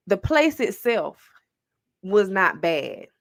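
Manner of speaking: very slow, with a suspenseful pause before "was not bad"; dramatic slow emphasis. Real, not acted. Storyteller revealing a surprise about hell to friends, slow and dramatic. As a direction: draw out "the place itself", pause, then land "was not bad".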